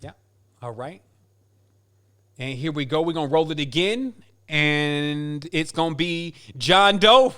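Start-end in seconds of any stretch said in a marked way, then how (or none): 4.5-7.3 slow and louder, stretching the name out; drawn-out winner reveal. Real, not acted. Host reveals the giveaway winner to listeners, slow and drawn out. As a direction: draw out the name like a prize announcer. Announcing a prize winner live.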